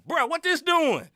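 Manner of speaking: high, slow disbelief; incredulous question. Retold or imitated. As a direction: ask it in disbelief. Retelling reaction to cougher.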